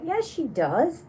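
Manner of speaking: high, drawn-out mock insistence; retold insistence. Retelling a back-and-forth disagreement.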